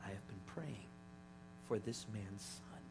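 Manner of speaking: hushed, heartfelt. Retold or imitated. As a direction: let each phrase land gently, with pauses. Retelling nurse's moving confession.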